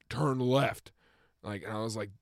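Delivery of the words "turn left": louder, insistent order; imitated drunk's insistence; drunken demand. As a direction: demand it from the backseat. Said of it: "he goes".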